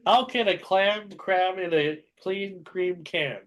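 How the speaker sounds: slow, clearer second take; slow careful repeat. Shown as a demonstration. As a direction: spell it out slowly.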